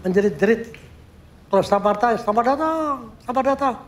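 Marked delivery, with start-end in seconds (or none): 1.7-3.8 high, ringing call of welcome; mock welcome shout. Sculptor recalling shouting welcome to the athletes. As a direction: call out the greeting to arriving heroes. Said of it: "saya menjerit".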